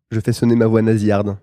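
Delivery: nasal, pinched through the nose. Shown as a demonstration. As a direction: speak it all through the nose. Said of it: "tu peux refaire sonner ta voix nasillarde?".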